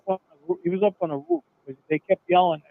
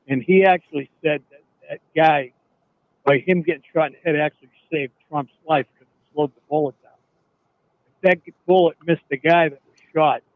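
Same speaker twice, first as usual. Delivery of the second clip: louder, pushing the voice to be heard; speaking up; 2 semitones lower, 3 dB louder than usual. Real, not acted. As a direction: talk up over a bad phone line. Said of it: "can you speak up".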